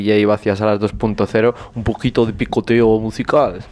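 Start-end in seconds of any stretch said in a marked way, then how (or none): 1.7-3.6 mock French accent, Madrid-tinged. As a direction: ask in a jokey French accent. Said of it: "mi acento francés de Vallecas".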